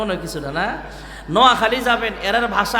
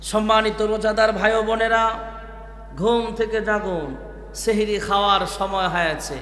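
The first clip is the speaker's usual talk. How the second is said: sehri wake-up call; 4 dB quieter than usual. Retold or imitated. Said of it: "আমরা ডাক দেই এভাবে".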